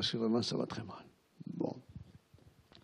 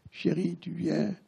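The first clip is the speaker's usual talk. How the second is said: husband calling again; 8 semitones higher, slower than usual. Retold or imitated.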